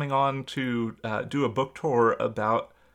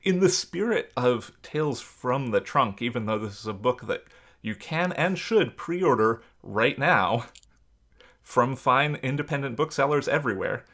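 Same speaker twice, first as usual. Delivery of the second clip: salesman voice. Pretend. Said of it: "I'll turn off the salesman voice now".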